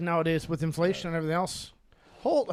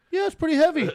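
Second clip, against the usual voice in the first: deadpan quote; 10 semitones higher, 6 dB louder than usual. Retold or imitated. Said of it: "He's like".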